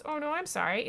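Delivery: exclaimed, hammed-up condolence; acted sympathy. Wake consoles the cat lady, acted sympathy.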